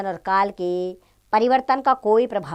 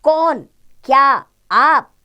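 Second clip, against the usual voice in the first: astonished question; 5 semitones higher, 7 dB louder, much slower than usual. Shown as a demonstration. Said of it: "सर्वनाम शब्द जैसे".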